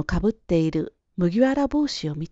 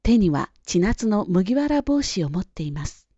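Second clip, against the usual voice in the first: usual speaking voice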